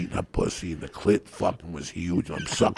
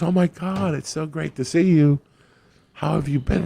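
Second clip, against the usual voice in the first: higher, louder mock gushing greeting; gushing woman; 11 semitones higher, 5 dB louder than usual. The woman at the door greeting Joey, gushing and higher. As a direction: play her thrilled to see an old friend. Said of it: "And she goes".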